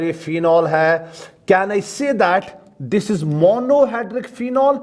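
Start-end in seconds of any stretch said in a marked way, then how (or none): 1.5-4.8 drawn-out, very slow question; slow dictation. Shown as a demonstration. Teacher asks students while they write, slowly. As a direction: spell it out slowly for the class. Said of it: "teacher dictating".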